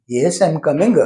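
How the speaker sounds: "coming" ending in an extra uh; added vowel after the g of "coming"; Tamil-influenced schwa. Shown as a demonstration. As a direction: finish "coming" on a schwa, coming-guh. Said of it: "This a sound is reflected in Tamilian language".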